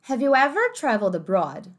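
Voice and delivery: "ever" with an American r at the end, like "everr"; American accent. Shown as a demonstration. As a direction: say "ever" with the r sounded. ("ever" com r americano)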